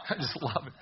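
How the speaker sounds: said through a chuckle; laughing. Real, not acted. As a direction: let the laugh spill into the words. Laughing after the cartoon joke.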